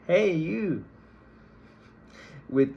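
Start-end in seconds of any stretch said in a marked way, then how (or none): 0.1-0.8 brash, higher and louder "hey, you"; over-familiar greeting. Shown as a demonstration. Speaker hails a library stranger like a close friend, rudely familiar. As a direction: hail a stranger like an old buddy. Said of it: "as if they were a close friend".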